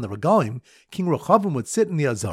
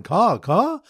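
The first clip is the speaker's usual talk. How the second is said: imitated caws, pitched up; mock bird caw, higher than talk; bird call; 5 semitones higher, 3 dB louder than usual. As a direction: give two cawing bird calls. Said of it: "Bird caller is going".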